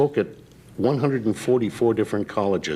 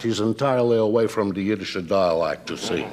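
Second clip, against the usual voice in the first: trying hard to lose a Yiddish dialect; overcareful speech with Yiddish slipping through; Yiddish accent poorly hidden. Shown as a demonstration. Voice actor shows a man escaping his dialect, strained non-Yiddish accent. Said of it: "tried to get away from the Yiddish dialect entirely".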